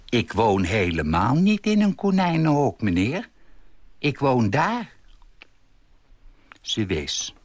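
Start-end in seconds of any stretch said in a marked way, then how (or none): 0.1-4.9 put-on higher, mildly indignant old lady; mild indignation. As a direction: protest with a touch of offence. Old lady rejects the insult. (licht verontwaardigd)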